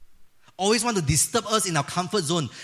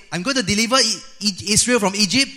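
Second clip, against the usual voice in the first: loud, high declaration; big, high-pitched announcement; booming divine proclamation; 6 semitones higher, 7 dB louder than usual. Acted. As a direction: proclaim it emphatically as God. God announcing deliverance to Moses.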